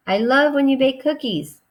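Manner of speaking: excited. Shown as a demonstration. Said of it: "it's excitement, so we need the emotion".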